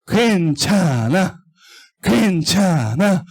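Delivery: slow, coaxing little voice; coaxing Satan. Acted. Teacher voicing Satan tempting children, slow and coaxing. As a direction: lure them in gently, slowly. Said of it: "사단 마귀가 와서 속삭이는 거죠".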